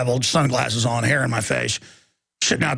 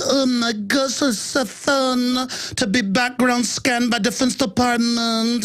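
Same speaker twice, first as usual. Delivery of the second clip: higher, slow, drawn-out goofy imitation; mocking Facebook guy; 6 semitones higher, slower than usual. Guy in Facebook video welcoming scans, mock delight. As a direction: drag it out as a simpering mock fan. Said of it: "where the guy goes".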